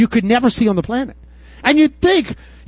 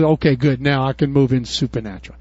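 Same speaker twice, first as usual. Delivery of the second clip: voice of Jesus; 8 semitones lower, 3 dB quieter than usual. Acted. Jesus voiced speaking in sermon.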